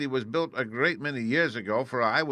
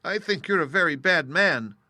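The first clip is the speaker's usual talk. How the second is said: put-on higher and louder girl's voice, scolding; a small girl accusing the wizard; young Dorothy; 6 semitones higher, 6 dB louder than usual. A narrator's reading. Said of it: "said Dorothy".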